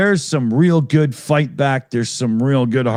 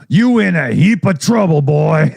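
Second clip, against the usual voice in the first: lazy Southern sheriff drawl, a bit louder; 3 dB louder than usual. Retold or imitated. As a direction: drawl it like a Southern lawman warning a boy. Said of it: "I said it in that southern drawl kind of thing".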